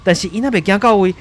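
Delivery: a touch of rising alarm in the live report; field reporter. Acted. Reporter Carlo reporting police approaching the Martian, mildly alarmed. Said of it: "记者就讲".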